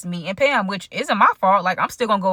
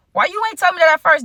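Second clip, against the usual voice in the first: higher and louder, betrayed surprise; shocked demand; 8 semitones higher, 4 dB louder than usual. Retold or imitated. Confronting her friend over the hidden news, shocked demand. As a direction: catch her off guard with the news.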